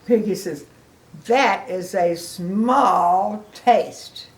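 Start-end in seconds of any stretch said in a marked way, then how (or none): 1.3-4.3 slow, louder, drawn out; pig teasing. Acted. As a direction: drawl it as a mild tease. Piggy judging.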